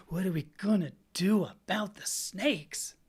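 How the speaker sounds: ponderous mock concern, leaning on each stressed word; Keith Self. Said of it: "Keith Self, sitting there going".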